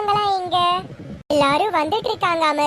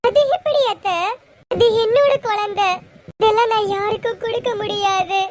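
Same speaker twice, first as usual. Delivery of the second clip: shocked protest; 4 semitones higher than usual. Acted. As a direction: protest as if the baby is being taken from you. Refuses to give up her baby. (குழந்தையை விட மாட்டேன் என்று அதிர்ச்சியுடன் கத்தும் குரல்)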